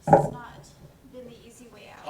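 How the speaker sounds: defensive. Acted. Kat defending herself.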